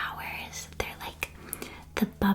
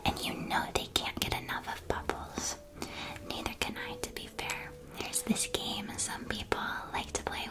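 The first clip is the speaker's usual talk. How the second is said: ASMR whisper. Acted. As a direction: whisper like a friendly candy shopkeeper sharing secrets. ASMR shopkeeper roleplay.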